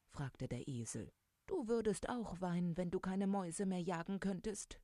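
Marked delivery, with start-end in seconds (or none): 1.5-4.8 high-pitched, mildly tearful cat voice; storybook mock sobbing. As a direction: play a weepy cat, pitched well up. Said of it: "schluchzte die Katze".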